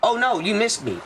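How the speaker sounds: a hint of her phony excuse; mocking coworker. Retelling the coworker's excuse in a lightly mocking voice. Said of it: "the second time you try to pose this excuse that".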